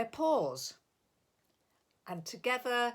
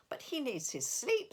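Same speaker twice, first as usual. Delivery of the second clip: squirrel voice; 5 semitones higher than usual. Acted. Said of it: "said Hoptail".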